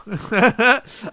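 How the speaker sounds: a sudden loud burst of laughter. Real, not acted. Vlogger bursts out laughing at the thought of Naruto, loud laugh. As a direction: crack up loudly at your own remark.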